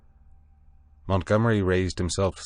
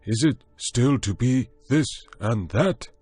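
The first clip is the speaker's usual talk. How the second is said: anxious monkey man; 7 semitones higher, 4 dB louder than usual. A narrator's reading. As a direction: ask it as a frightened ape. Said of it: "asked the monkey man".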